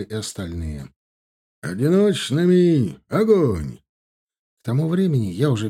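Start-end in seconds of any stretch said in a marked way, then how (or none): 1.6-3.8 barked command. Acted. Капитан командует огонь.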